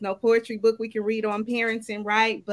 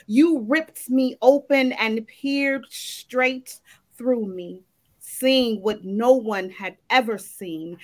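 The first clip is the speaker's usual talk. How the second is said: slow, rhythmic poetry recital with swelling lines; spoken word poem. Acted. Poet reciting to the ladies at the open mic, slow and rhythmic. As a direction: perform it like a spoken word piece, savoring each line.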